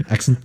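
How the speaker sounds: "Accent" said as a mock British demo; British pronunciation. Shown as a demonstration. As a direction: show how Brits say "Accent". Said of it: "that's how we Brits pronounce it".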